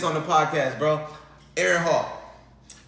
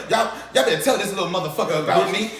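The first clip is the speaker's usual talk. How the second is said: arrogant star; 2 semitones higher, 4 dB louder than usual. Retold or imitated. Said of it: "he said it just like".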